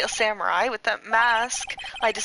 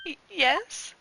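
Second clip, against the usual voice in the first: dumb himbo voice; 7 semitones higher than usual. Acted. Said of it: "but he would go, like".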